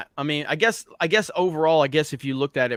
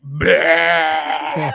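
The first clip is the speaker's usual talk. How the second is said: a loud put-on burp noise; hammed-up retold burp; mock burp; 2 semitones higher, 7 dB louder than usual. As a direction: belch it out as a joke. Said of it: "I just let the biggest burp out".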